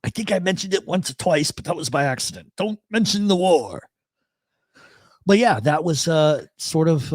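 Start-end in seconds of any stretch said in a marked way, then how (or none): 2.6-3.9 a touch higher, mock-stern repeat; John Cleese line. Host repeating the Cleese line to listeners, lightly mock-stern. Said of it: "I am not John Cleese".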